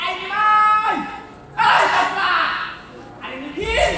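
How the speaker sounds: impatient hollering for the cast; calling out. Acted. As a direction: shout for the missing actors. Director calls for missing actors.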